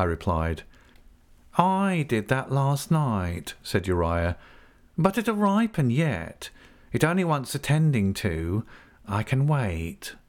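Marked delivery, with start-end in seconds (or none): 1.6-10.2 slow, higher oily voice; sly patient menace. Acted. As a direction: savour each word smugly.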